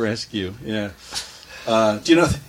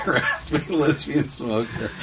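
laughing echo; slower than usual. Real, not acted. Host repeats laughing.

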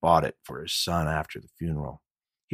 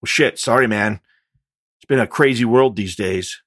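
rattled apology; 5 semitones higher, 8 dB louder than usual. Acted. Gunman apologizing.

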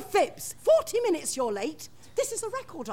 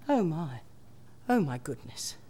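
stunned and quiet; 6 semitones higher, 10 dB quieter than usual. Acted. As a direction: take in the sad news softly. Teacher learns of the funeral.

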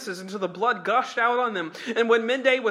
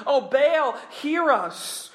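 crying out; 5 semitones higher, much slower than usual. Acted. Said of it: "shouting and crying".

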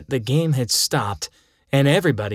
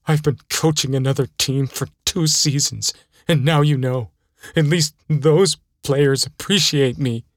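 a hint of a sulky coach griping under his breath; bitter coach; 2 semitones higher, 3 dB louder than usual. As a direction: coach muttering resentfully to the kid. Coach Death figure voiced.

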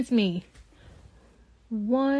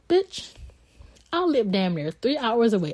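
incredulous bitch. Real, not acted. Exasperated outburst at the rep.

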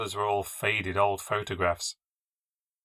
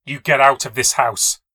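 breathed threat; 3 semitones higher, 9 dB louder than usual. Acted. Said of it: "she breathed".

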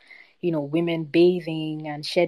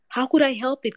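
high, loud desperate protest; anguished cry; 8 semitones higher, 5 dB louder than usual. Acted. Hasibu pleading with the snake king, anguished cry. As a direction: plead your helplessness loudly. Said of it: "cried Hasibu".

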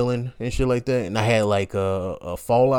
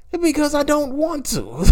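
high shout. Retold or imitated. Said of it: "shouting refusal".

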